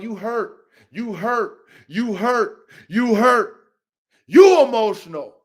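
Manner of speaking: needling chant that swells to loud; building taunt. Real, not acted. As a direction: repeat it, building to a loud final accusation. Repeated taunt at his rival.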